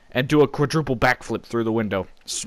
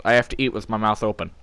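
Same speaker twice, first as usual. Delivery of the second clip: usual speaking voice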